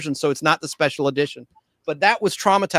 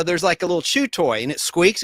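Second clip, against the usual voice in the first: ordinary delivery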